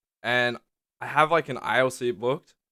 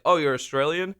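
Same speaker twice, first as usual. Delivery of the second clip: higher question, mildly loud; loud, retold; 5 semitones higher, 4 dB louder than usual. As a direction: imitate a loud fellow passenger, pitched up. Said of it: "Just start talking really loud".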